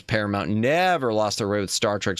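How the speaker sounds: sarcastic, lilting sing-song delivery. Pretend. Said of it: "Sarcastic, uh, sing-song voice".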